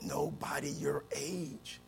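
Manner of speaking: whisper, then a wailing cry; mock panic. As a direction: build from hushed dread to a wail. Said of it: "I'm gonna have a heart attack".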